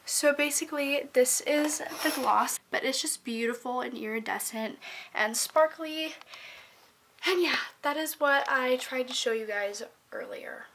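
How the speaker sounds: loud, roomy laptop mic sound; speaking into the built-in laptop mic. Real, not acted. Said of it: "this audio might sound weird because I'm not using my microphone".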